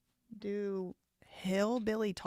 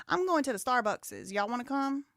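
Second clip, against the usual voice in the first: higher, casual Southern invitation; Southern accent, pitched up; American South speech; 5 semitones higher than usual. Acted. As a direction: play a Southerner off on an errand. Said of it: "we do say that in the American South".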